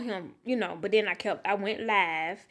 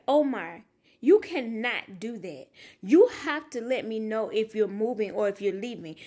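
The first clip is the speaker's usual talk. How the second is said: scolding. Retold or imitated. Mom scolding son after scare.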